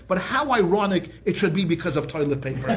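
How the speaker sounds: chuckling through the words; amused chuckle at the irony; laughing. Real, not acted. Ironic toilet paper joke.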